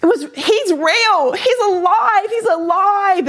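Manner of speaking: high, thrilled outburst; exultant proclamation. Retold or imitated. Speaker relives her night of conversion, exultant and high. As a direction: cry it out in overjoyed discovery.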